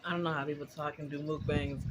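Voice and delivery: talking with mouth full. Real, not acted. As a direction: speak through a mouthful of food. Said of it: "I can't talk with my mouth full".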